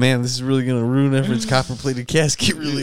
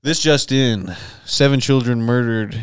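news anchor; 2 semitones lower than usual. Pretend. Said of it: "do news station".

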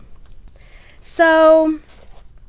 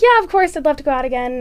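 delighted yes; 4 semitones higher, 8 dB louder than usual. Retold or imitated. Her delighted reply.

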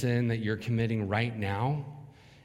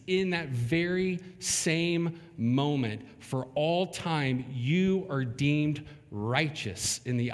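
fervent preaching; 3 semitones higher than usual. Acted. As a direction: drive the point home to the congregation. Preaching at rising intensity.

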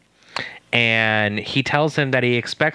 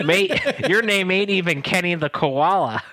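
put-on Australian accent; 6 semitones higher than usual. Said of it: "do you like my Australian accent?".

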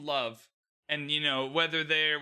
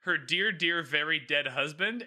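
laughing mock mourning. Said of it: "and I quote".

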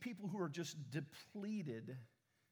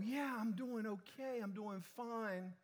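mock brave front; 5 semitones higher, slower than usual. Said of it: "we put on our best front and we go".

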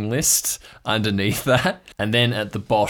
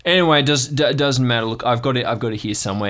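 flustered uncle; 3 semitones higher, 4 dB louder, faster than usual. Acted. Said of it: "he goes".

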